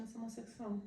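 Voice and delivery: a timid, barely-there confession; said very softly. Retold or imitated. Son confessing to his whole family, softly. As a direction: hold the words back, softly. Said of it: "Eu falei bem baixinho".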